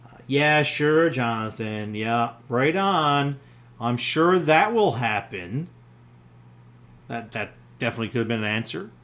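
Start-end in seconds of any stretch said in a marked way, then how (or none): 0.3-5.7 sarcastic. Pretend. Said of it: "Another one is sarcasm".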